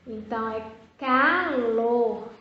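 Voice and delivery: calor said slowly with a plain ka; careful correct form. Shown as a demonstration. Teacher confirming the spoken form calor for the class. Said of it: "Pra palavra ficar correta".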